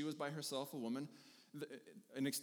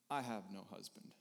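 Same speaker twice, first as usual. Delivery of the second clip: dramatic pause line; 7 semitones lower, 6 dB quieter than usual. Acted. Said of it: "a massive dramatic pause when she says that".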